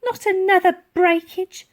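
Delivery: muttered. Acted. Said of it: "muttered the lady".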